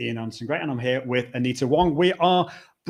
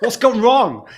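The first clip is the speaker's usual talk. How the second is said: a hammed-up, laughing "What's happening?", higher; mock alarmed viewer; 8 semitones higher, 9 dB louder, slower than usual. Host voicing a listener puzzled by the sudden silence, mock surprise. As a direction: play the startled viewer, half-laughing. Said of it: "because they think".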